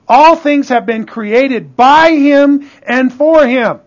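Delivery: weighty, declaimed Bible verse; emphatic scripture reading. Real, not acted. Preacher reading Colossians to the congregation, emphatic and deliberate. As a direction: stretch the key words with conviction.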